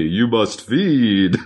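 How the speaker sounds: slow, drawn-out creaky fry; vocal fry. Retold or imitated. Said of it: "vocal fry".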